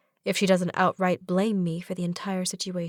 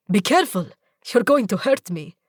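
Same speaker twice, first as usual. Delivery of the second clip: alarmed warning; 5 dB louder than usual. Acted. Zahid dodging, alarmed.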